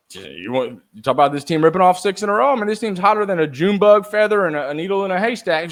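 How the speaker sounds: mock Kevin's country zinger, badly; bad country accent. Retelling Kevin's flubbed zinger to the hosts in a bad country accent. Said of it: "I don't do a good country accent".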